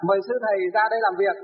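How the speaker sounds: a stern, formal call from the village elders; stern summons. Retold or imitated. Village elders summoning the monk, stern and formal. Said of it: "nghiêm nghị như vậy".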